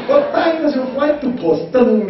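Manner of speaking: imitating a pastor's cowboy English; cowboy accent. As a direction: stretch each word like a Texan. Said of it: "Kata ngedok gitu".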